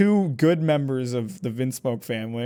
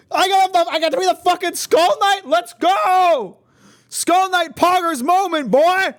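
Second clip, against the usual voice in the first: excited; 6 dB louder than usual. Real, not acted. Excited about getting Skull Knight.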